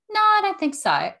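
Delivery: retelling her startled denial to the dentist. Retold or imitated. To the dentist, a high startled denial.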